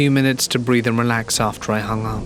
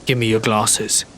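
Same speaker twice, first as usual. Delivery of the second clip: emotionless command. Acted. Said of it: "Statement, no question, not emotion".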